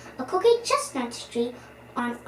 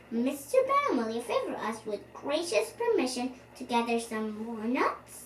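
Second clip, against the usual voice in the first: polite request; 4 dB quieter than usual. Acted.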